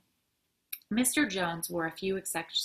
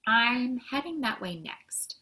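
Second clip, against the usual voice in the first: drawn-out reply; 6 semitones higher, 6 dB louder, slower than usual. A narrator's reading. First take, retried after "or.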